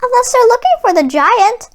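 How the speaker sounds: a lightly voiced, lonesome jukebox; a hint of a lonely jukebox warning. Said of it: "The voice came from the jukebox".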